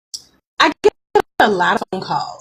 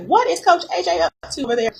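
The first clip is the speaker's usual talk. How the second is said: lightly mimicked puzzled listeners, higher and quicker; a hint of a curious audience, pitched up; imagined listeners; 9 semitones higher, faster than usual. Coach voices viewers wondering about the background noise, lightly mimicked. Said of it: "I guess you guys are like".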